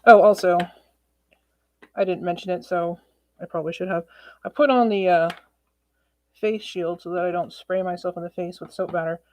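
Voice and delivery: muffled behind a face shield; talking through a plastic face shield; tin can voice. Real, not acted. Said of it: "that's why I sound like I'm in a tin can".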